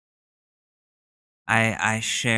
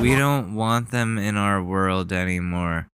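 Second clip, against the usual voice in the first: mocking child voice. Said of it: "a childish, I think an adult said that".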